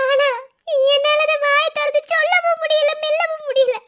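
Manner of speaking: confessing the pain aloud; anguished cry. Acted. (உயர்ந்த வேதனைக் குரல்)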